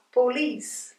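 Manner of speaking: "police" as po-LICE, final syllable strong; stress on second syllable. Shown as a demonstration. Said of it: "vem antes da sílaba que é mais forte".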